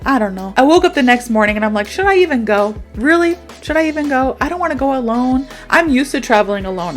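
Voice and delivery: ordinary talk, nothing marked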